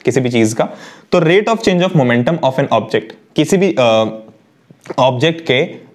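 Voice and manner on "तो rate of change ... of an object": spelling out the definition very slowly; slow recital. Acted. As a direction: dictate it slowly to the class. Recites the law slowly again. (धीमे-धीमे बोलकर लिखवाना)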